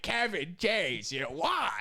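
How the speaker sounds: slow, mumbly light Sandler voice; a hint of laid-back Sandler in an interview; lightly voiced casual Adam Sandler. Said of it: "That's a pretty decent one".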